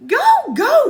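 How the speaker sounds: high loud impatient cry. A narrator's reading. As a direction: shoo him along, fed up. Annie impatient.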